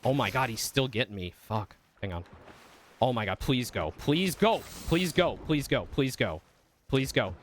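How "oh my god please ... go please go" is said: pleading that jumps high, then eases; urgent pleading. Real, not acted. Gamer begging their character to go, urgent pleading. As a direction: beg it to move, pitch leaping up.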